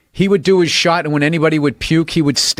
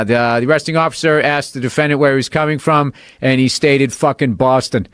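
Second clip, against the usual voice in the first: bailiff reading. Retold or imitated. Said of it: "the bailiff read the thing".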